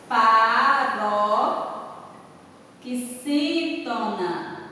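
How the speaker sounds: paroxítona in very slow, separated chunks; drawn out slowly. Shown as a demonstration. Teacher classifying panela for the class, drawn out very slowly. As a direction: stretch paroxítona out syllable by syllable. Teacher gives answer syllable by syllable.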